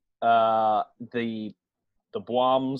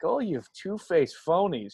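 put-on drunken rant; 7 semitones higher, 3 dB louder, slower than usual. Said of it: "Christian Bale drunkenly ranting".

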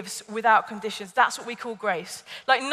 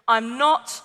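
imitating disappointed mum. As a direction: act out a let-down mother's telling-off. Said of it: "she just went".

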